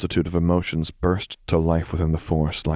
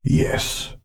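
fond reply; 8 semitones higher than usual. A narrator's reading. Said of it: "he replied fondly".

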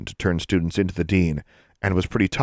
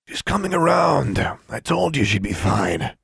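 lightly voiced old custodian; 8 semitones higher than usual. A narrator's reading. Custodian tells the others the fallen girl will be fine, lightly voiced. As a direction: reassure the others, easy and unhurried.

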